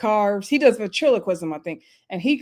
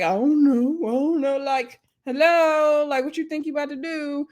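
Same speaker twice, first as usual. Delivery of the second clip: mock shrugging mumble; 6 semitones higher than usual. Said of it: "shaking his shoulders like".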